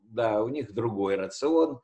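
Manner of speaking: ordinary talk, nothing marked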